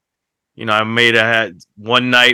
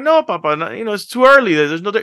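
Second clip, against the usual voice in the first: retold pleading with son; 8 semitones higher, faster than usual. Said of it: "I'm like".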